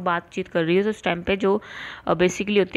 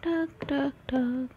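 low drum knocks; 4 semitones higher, 8 dB quieter, much slower than usual. Shown as a demonstration. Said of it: "low vibration करो तो आपको".

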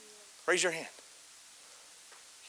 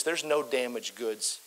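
hushed emphasis; 4 semitones lower, 6 dB quieter, slower than usual. Acted.

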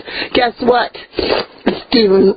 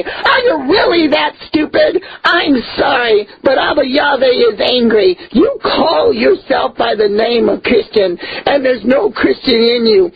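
angry scolding. Real, not acted. Preacher scolding followers who bought the product, crying angry shout. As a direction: berate them, voice cracking with anger.

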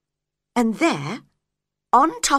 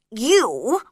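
curt and cold; unfriendly; 4 semitones higher, 4 dB louder than usual. A narrator's reading. Caterpillar rudely addresses Alice, unfriendly voice. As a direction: snub her with one word. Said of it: "in a very unfriendly voice".

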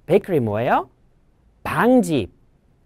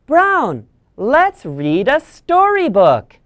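put-on child voice; 7 semitones higher, slower than usual. The speaker talking to a dog.

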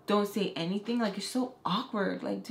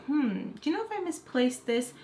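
feigned puzzlement; 6 semitones higher than usual. Retold or imitated. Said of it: "and I say, like".

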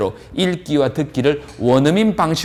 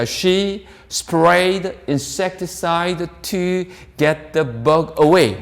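very slow, word by word; slow model reading; 2 semitones higher, much slower than usual. Shown as a demonstration. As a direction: draw each word out for learners. 강사가 어순대로 문장 시범 낭독. (단어마다 길게 늘여 천천히 읽기)

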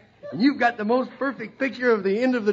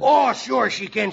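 shouting; 3 dB louder, slower than usual. Acted. Insisting over the laughter.

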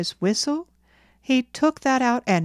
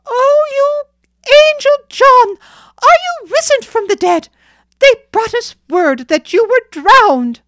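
very loud, high-pitched tearful wail; 14 dB louder than usual. A narrator's reading. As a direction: wail in overjoyed disbelief, as if seeing the dead. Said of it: "weeping and wailing aloud".

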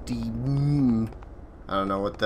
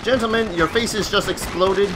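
disbelief; 7 semitones higher than usual. Real, not acted. Addressing dead Nazis in disbelief.

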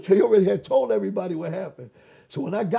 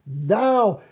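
soft hollow voice; 4 dB louder than usual. Retold or imitated. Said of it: "soft, soothing, hollow voice".

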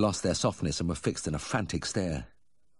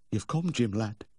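put-on drunken mumble; 5 semitones higher than usual. A narrator's reading. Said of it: "he mumbled".

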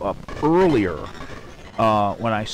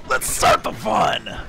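excited shout; 6 semitones higher, 4 dB louder, slower than usual. Real, not acted. Gleeful opening shout of let's play.

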